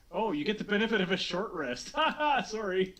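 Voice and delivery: sheepish laughing apology; nervous laugh. Real, not acted. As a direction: laugh it off, embarrassed. GM laughs at his mistake.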